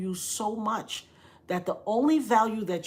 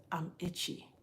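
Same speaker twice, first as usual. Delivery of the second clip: very soft, low and weak; small, feeble voice from a sickbed; barely able to talk; 3 semitones lower, 14 dB quieter than usual. Retold or imitated. Sick sister tells what she needs most, very faint. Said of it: "She couldn't really talk".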